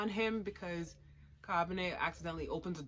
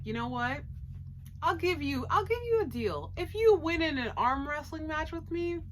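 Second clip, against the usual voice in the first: high villain voice; 9 semitones higher, 4 dB louder than usual. Acted. Mihai offers deal.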